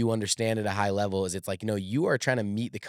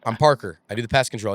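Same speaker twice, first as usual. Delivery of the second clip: louder, curt, matching his edge; mirroring the gruff customer; 5 dB louder than usual. Retold or imitated. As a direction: answer blunt and loud, giving it right back. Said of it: "mirroring him".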